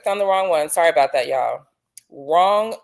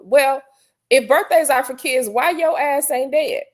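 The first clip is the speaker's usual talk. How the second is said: heated comeback; 5 semitones higher than usual. Real, not acted. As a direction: snap back at him playfully. Retort to Wayne.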